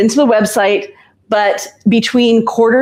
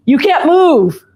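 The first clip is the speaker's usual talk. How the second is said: teasing; 7 semitones higher, slower than usual. Real, not acted. Teasing the drowsy co-host.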